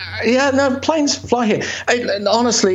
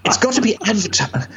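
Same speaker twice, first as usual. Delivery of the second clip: posh career adviser; 2 semitones higher than usual. Retold or imitated. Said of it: "they talk like that in career services. They're very posh".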